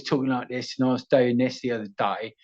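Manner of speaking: light British regional accent. Shown as a demonstration. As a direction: talk like a British bloke. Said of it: "so many different British accents".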